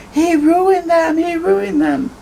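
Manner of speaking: put-on angry little girl. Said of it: "Viviana was very angry later".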